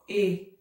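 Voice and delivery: E said as a closed ê. Shown as a demonstration. Teacher showing pupils the sound, closed ê. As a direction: hold a slow, closed ê for E. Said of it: "é um som mais fechado".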